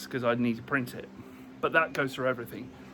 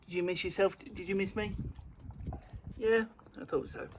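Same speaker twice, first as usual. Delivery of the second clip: talking to a dog; 4 semitones higher, 7 dB quieter than usual. Real, not acted. Talking to pets.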